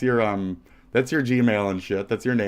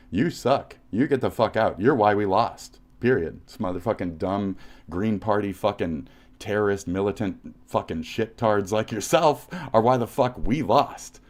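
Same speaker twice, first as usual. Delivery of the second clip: angry yell; 4 dB louder than usual. Real, not acted. Angry rant at online critic.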